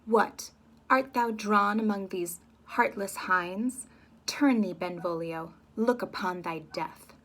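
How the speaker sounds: slow, loud, taunting threat; slow loud threatening taunt; menacing challenge. Acted. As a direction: sneer the challenge slowly. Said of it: "comes back at him and says".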